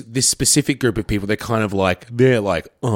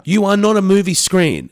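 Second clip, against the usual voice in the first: raised-pitch, emphatic scolding; exasperated rant; 8 semitones higher than usual. Retold or imitated. Host telling off friends who explain movies, exasperated rant. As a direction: scold them in a high, worked-up voice.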